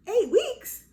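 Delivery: loud, high incredulous question; stunned, high-pitched exclamation; retold shock. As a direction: blurt it out in disbelief. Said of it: "I just was shocked".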